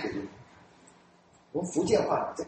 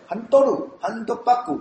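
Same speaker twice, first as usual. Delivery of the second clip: Japanese accent; 3 semitones higher, 3 dB louder than usual. Shown as a demonstration. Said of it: "到日本去练嘛".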